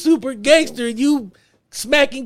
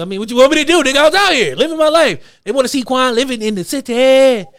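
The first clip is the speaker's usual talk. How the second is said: raised, louder mock self-justification; swaggering mock defense, pitched up; hammed-up defiant parody; 4 semitones higher, 4 dB louder than usual. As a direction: play an unrepentant star making excuses, over the top. Hammed-up parody of player's apology.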